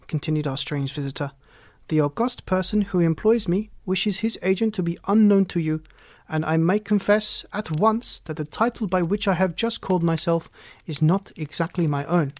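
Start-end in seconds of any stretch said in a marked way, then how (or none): 1.9-12.3 lightly voiced solemn nobleman; a hint of a pompous Count; grave Bohemian Count. Count binding two listeners to secrecy, lightly voiced as grave.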